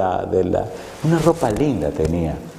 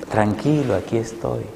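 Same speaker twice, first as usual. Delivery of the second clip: calm reassurance. Retold or imitated. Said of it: "esa voz me seguía hablando".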